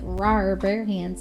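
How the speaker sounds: lightly growled bear impression; bear roar. Shown as a demonstration. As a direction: do a small mock "Rawr". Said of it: "It's like, no, like".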